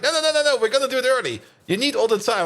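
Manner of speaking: firmly insist, voice up; insistent. Retold or imitated. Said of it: "And she was like".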